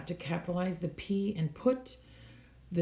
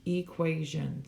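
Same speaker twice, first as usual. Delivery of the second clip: "Equation" slowly, in three beats; syllable by syllable. Shown as a demonstration. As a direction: sound out "Equation" one syllable at a time. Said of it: "three syllables".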